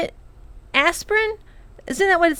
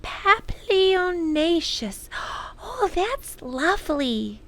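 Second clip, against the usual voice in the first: dreamy delight; 4 semitones higher, 5 dB quieter, slower than usual. A narrator's reading. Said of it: "said Lindy".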